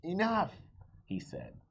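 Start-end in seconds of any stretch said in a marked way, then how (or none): 0.0-0.5 sharp command. Acted. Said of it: "the policeman blew his whistle".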